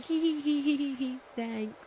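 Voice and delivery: high bashful giggle; tittering with embarrassed delight; giggly. Retold or imitated. Mock giggle at praise.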